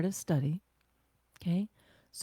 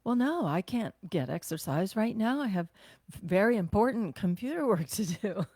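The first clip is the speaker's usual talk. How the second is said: mock excuse. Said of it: "I was laughing at mine".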